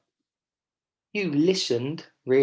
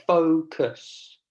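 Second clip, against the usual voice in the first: "focus" drawn out, strong FO, quieter cus; stressed first syllable; 3 semitones higher, 4 dB louder than usual. Shown as a demonstration. Teacher models a quieter last syllable, stress on first. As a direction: slowly punch FO in "focus" and let cus fall away. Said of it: "we say it a bit more quietly".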